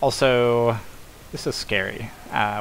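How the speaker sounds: usual speaking voice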